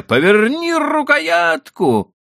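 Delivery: very high, loud urgent order; shout. A narrator's reading. Husband yelling instructions to wife at the cart, urgent shout. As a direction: yell the command to turn the handle. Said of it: "кричал я".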